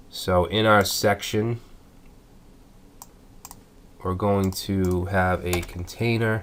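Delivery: blocked nose from a cold; talking through a stuffy nose; stuffed up. Real, not acted. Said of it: "I sound a little stuffed up".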